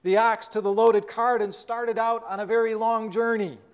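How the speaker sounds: steady storytelling read to the congregation; sermon story reading; story narration. A narrator's reading. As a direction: tell the parable evenly, like a preacher reading a tale. Reads parable aloud to congregation.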